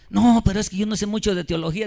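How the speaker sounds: lightly voiced churchgoer pleading ignorance; a churchgoer making excuses to the preacher, mock whiny.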